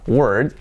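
WORD with a lengthened vowel into a voiced D; drawn-out word. Shown as a demonstration. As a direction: let WORD ring longer. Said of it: "parece más alargada".

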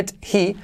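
"did he" with a full D and a clear H; separate words. Shown as a demonstration. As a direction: say the two words apart. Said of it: "se dice daddy". ("did he" separado, con H)

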